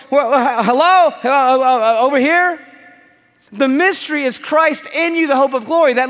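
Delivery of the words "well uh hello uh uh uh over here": mock calling out. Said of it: "And Jesus is going".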